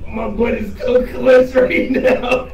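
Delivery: nervous words breaking into high laughter; hyperventilating with laughter. Real, not acted. Player in a tight spot, hyperventilating laughter. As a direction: laugh helplessly through the nerves. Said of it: "hyperventilating low-key".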